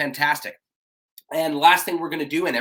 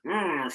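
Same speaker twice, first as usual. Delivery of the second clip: sulky mm; 2 semitones higher, 5 dB quieter than usual. Shown as a demonstration. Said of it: "So you go".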